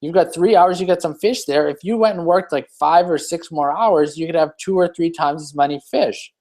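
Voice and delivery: a hint of a keen tourist pitching an idea; eager businessman. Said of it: "And he goes".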